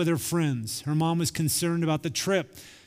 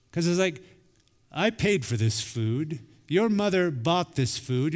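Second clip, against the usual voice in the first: harsh scolding. Retold or imitated. Dad to unthankful son at dinner, mildly harsh. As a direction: imitate a dad laying down each point. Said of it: "So I spoke to him harshly".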